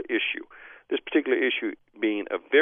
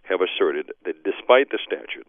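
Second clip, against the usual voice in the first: despite the statute said slower with a lift on despite; stress on despite. Real, not acted. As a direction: lean on the word despite. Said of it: "I emphasize the word despite the statute".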